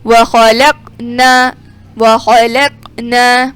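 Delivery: وخلقنا with a thick, full qaf; heavy qaf. Shown as a demonstration. Teacher showing the heavy qaf in وخلقنا. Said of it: "قاف موٹا پڑھیں گے".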